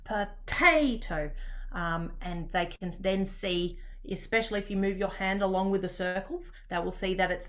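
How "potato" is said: mock angry. Shown as a demonstration. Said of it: "say potato in an angry way".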